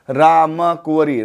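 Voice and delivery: "राम कुंवरी" slowly drawn out; slow repetition. Shown as a demonstration. Teacher repeats the mother's name for students, slow repetition. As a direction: stretch "राम कुंवरी" word by word.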